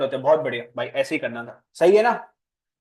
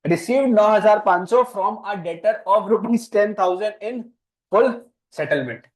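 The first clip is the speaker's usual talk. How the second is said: very slow, louder and higher, each word set apart; slower dictation; 5 semitones higher, 4 dB louder, much slower than usual. Shown as a demonstration. Teacher repeating the whole entry very slowly so the new student can write it. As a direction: dictate it again, even slower and with more force. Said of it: "बोलना पड़ता है".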